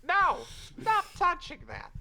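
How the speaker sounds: high, loud shrieking; very high panicked yell; panicked shout. Acted. Robot grabs the inventor.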